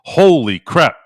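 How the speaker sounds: loud, high "Holy crap" in mock shock; mock surprise. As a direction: yell it like the buzz just hit you. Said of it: "all of a sudden he goes".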